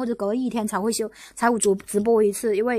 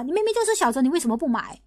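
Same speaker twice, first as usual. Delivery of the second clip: mocking accuser; 2 semitones higher than usual. Streamer mimicking haters scolding fans, mild mock accusation. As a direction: lightly imitate a hater's scolding. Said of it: "说你们啊".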